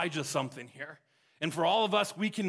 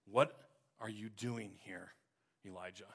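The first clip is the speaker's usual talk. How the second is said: softer, almost fading voice of God; quiet voice of God; 7 semitones lower, 8 dB quieter than usual. Acted. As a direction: speak as God in a hush, dying away on Elijah. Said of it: "in a voice of God said".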